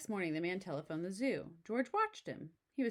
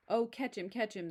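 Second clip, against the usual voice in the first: mild cry; 3 semitones higher, 3 dB louder than usual. Acted. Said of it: "they cried".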